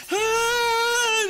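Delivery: mock startled yell. Retold fisher losing pole.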